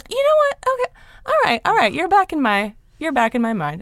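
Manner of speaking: high, giddy reaction to a rediscovered crush; delighted inner voice. Retold or imitated. After a George Clooney rom-com, thrilled and gushing high. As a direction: gush it up high like you just rediscovered him. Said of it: "and I was like".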